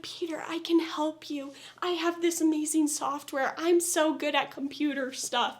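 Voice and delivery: breathy whispered mock of Rose; whispered parody of an eager helper; Rose quote. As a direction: lightly send up her eager pitch in a whisper. Voicing Rose offering help.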